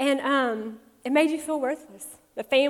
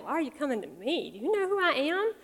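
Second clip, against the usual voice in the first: a harsh retort, mimicked as misheard; mock indignation; 3 semitones higher than usual. Speaker mimics the harsh Jesus she used to hear, mock indignant. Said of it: "I've always heard it like".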